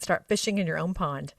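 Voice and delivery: folksy Arkansas accent, lightly done. Shown as a demonstration. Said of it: "in my Arkansas accent".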